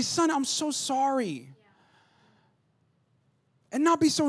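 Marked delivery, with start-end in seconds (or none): 0.0-1.5 gentle comfort. Shown as a demonstration. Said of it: "get down ... and say".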